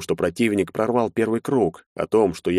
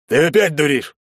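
stern officer; 8 semitones higher, 5 dB louder than usual. A narrator's reading. Major scolds the troublemaker.

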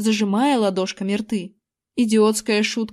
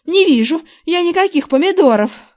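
irritated; 6 semitones higher, 6 dB louder than usual. A narrator's reading. Wife irritated, sees nothing.

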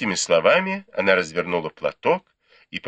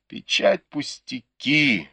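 higher, slow, drawn-out exclamation; exclaiming; 10 semitones higher, slower than usual. A narrator's reading. Bao Yu dismissing the lost seal, exclaiming slowly. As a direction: fling it out, slowly and high. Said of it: "воскликнул Бао Юй".

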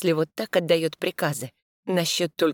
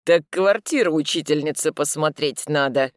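ominous tone; 4 dB louder than usual. Acted. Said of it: "тоном, не предвещающим ничего хорошего".

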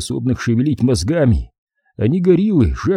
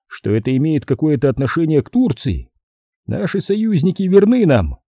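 a hint of a formal consul, pitched higher; lightly voiced diplomat laying out the facts; consul addressing officials; 5 semitones higher than usual. Consul briefing the gentlemen on the case, lightly voiced.

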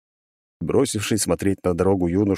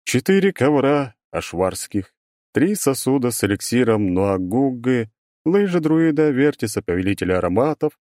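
droning robot voice; 5 semitones higher than usual. Acted. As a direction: list it like a bored machine. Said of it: "нудно перечислял здоровенный магический робот".

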